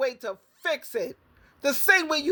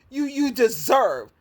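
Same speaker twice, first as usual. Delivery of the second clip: usual speaking voice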